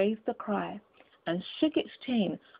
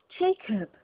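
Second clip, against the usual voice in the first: imploringly; 5 semitones higher than usual. Acted. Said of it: "he said imploringly".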